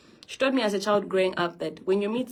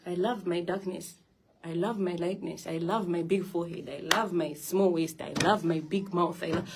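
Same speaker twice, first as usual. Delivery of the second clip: affirmations; 3 dB quieter than usual. Acted. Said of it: "affirmation list".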